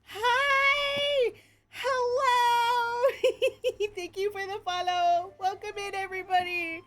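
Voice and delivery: high, loud, squealed welcome with giggles; proper shout-out. Pretend. Streamer thanks new followers, excited shout-out. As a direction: squeal the hellos, then ease down slightly. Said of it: "do the proper fucking shout out".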